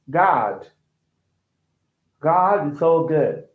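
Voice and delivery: American "God" with a long open "ah"; American accent. Shown as a demonstration. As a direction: stretch "God" the American way, slowly. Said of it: "American people, they're gonna say".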